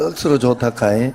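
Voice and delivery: 억수로 punched, rising at the end, in Gyeongsang dialect; a lively Gyeongsang dialect 억수로 좋다카이 with a rising end. Shown as a demonstration. Pastor models a Gyeongsang greeting for the congregation, rising Gyeongsang lilt. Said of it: "경상도 말로".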